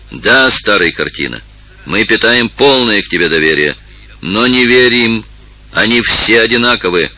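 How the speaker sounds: a mild shout building toward the end. Acted. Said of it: "закричал Лоренцо". (Лоренцо кричит старосте, сдержанно)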